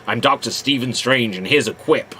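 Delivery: low, stiff fake American accent; mock American accent. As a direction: send up his American Strange accent. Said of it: "What is this voice?".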